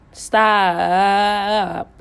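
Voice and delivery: a firm, loud one-word command; stern loud stop. Real, not acted. Scolding spell casters, a loud stern stop. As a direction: shut it down with a single hard stop. Warning people off her dream state.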